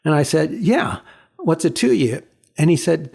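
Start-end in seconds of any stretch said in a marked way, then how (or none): 0.5-2.2 mildly curt retort; a touch of curt, guarded challenge. Retold or imitated. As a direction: brush off a stranger, lightly acted. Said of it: "being kind of curt".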